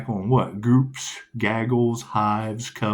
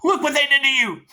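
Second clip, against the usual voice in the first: mock pity; 13 semitones higher, 4 dB louder than usual. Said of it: "go Dexter".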